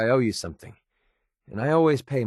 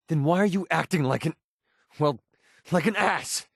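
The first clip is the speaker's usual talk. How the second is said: raised pitch, breaking off then landing the insult; angry accusation; 5 semitones higher than usual. Acted. Confronting a companion over bad behaviour, angry. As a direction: demand an answer, hunting for the word. Acted quarrel, insulting someone.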